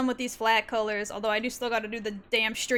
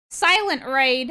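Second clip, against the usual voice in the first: 1 mock outrage; 2 semitones higher, 7 dB louder, slower than usual. Scolding raider in mock outrage.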